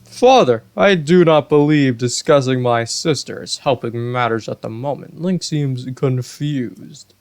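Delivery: lightly voiced eager prince; prince Sidon. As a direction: cut in politely but firmly.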